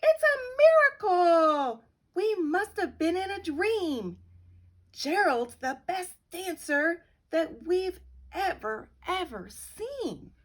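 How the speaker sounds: high, loud amazed shout. Acted. The animals shouting in wonder at Gerald's dancing, high and loud. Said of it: "They shouted".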